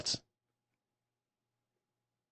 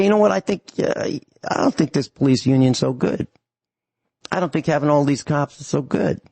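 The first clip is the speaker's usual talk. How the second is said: mock cowed mayor; 3 semitones higher than usual. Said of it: "He'd say".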